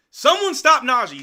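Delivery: frustrated fan shouting at the TV; exasperated shout. Real, not acted. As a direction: yell it at the screen in disbelief. Repeats the plea, exasperated.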